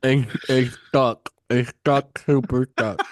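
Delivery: tongue on roof of mouth. Pretend. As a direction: push words past a stuck tongue. Continuing the stuck tongue bit.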